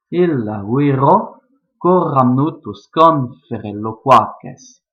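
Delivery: scansion lente et plus forte; avec expression. Shown as a demonstration. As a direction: finir le poème avec expression. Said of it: "mettre un petit peu d'expression". (vers latin lu lentement, avec expression)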